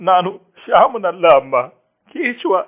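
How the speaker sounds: high, loud, strained plea, slowing on the name; desperate pleading. Acted. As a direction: beg her to know you. Son desperately corrects mother.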